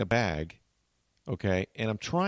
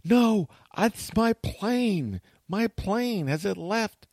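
much higher, very slow, breathless pleading; gasping out words; 11 semitones higher, much slower than usual. Retold or imitated. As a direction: spit it out between gasps. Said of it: "while I'm trying to spit out".

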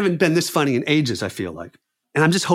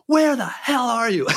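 high, slow, drawn-out angry demand; mock furious yell; 9 semitones higher, slower than usual. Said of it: "He's even more pissed off".

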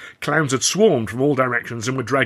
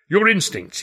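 high, loud exclamation; excited cry; 9 semitones higher, 5 dB louder than usual. A narrator's reading. Old clown praises the young performer, crying out. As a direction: burst out with admiration. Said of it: "he cried".

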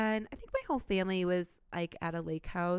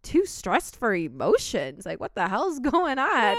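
incredulous mom; 7 dB louder than usual. Retold or imitated. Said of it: "she's like".

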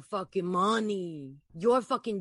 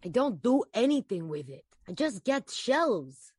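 Anthony, defensive. Acted.

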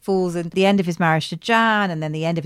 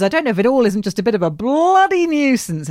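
Leo's line; 4 semitones higher, 3 dB louder than usual. Retold or imitated. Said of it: "he literally does say it like that".

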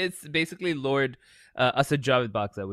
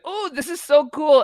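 high, louder gushing quote; mock gush, pitched way up; retold excitement; 11 semitones higher, 6 dB louder than usual. Retelling first reading the gift's papers, excited. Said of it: "I was like".

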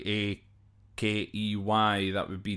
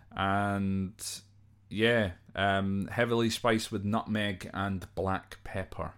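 normal talking voice

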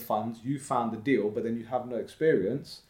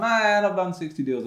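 higher-pitched mock whine of someone lost; mock exasperation; 7 semitones higher than usual. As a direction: put on a helpless, higher-pitched complaint. Acting out a clueless investor.

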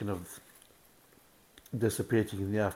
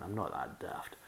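wry whisper; 4 dB quieter than usual. Real, not acted. Wry aside about delivery con.

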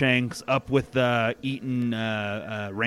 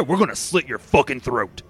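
snarling goblin threat, raised; 4 semitones higher, 5 dB louder than usual. Acted. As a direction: menace him like a nasty goblin.

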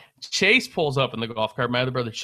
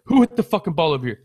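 quick, higher retold challenge; mock angry demand; 3 semitones higher, 4 dB louder, faster than usual. Stranger talking trash to his brother, mock angry demand. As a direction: fire off the irate golfer's question. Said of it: "this guy's talking shit to my brother".

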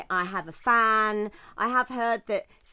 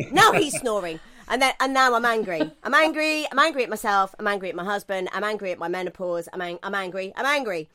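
louder, half-laughing mock fury; hammed-up rising annoyance; a wife fed up with a snoring husband; mock anger; 4 dB louder than usual. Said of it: "this is impression of me".

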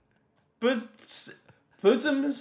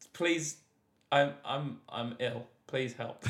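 feeble pleading; 6 semitones lower, 8 dB quieter than usual. Pretend. Caught naked, feigns illness.

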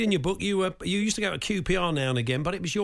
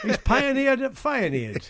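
laughing; 8 semitones higher, 4 dB louder, slower than usual. Real, not acted. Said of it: "It's brilliant".

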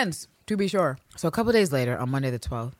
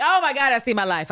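louder, higher gasp of recognition; mock revelation; 9 semitones higher, 5 dB louder than usual. Host mimicking Anne seeing her life in a novel, louder. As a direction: realize it all at once. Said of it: "she's like".

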